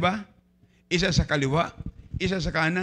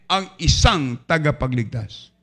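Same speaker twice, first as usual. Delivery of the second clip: proclaiming scripture; 6 semitones higher, 8 dB louder than usual. Acted. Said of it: "ang sabi ng Biblia".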